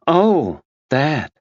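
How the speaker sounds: as if the death barely matters; dismissive oh. A narrator's reading. Tina brushing off Max's mention of the death.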